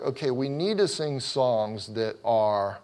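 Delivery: slow down and lean on "need"; "need" drawn out as a demand; stress on need. Retold or imitated. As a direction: imitate someone insisting, with weight on "need". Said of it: "they always say it like need".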